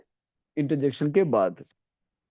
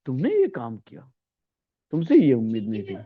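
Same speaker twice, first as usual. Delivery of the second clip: reproach; 3 semitones lower than usual. Shown as a demonstration. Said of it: "धिक्कार या निंदा जताने के लिए".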